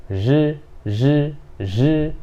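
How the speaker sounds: j with teeth together and tongue curled back; retroflex sound demo. Shown as a demonstration. Teacher showing the curled-tongue sound to students. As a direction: curl the tongue and buzz the j. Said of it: "você vai fazer esse som".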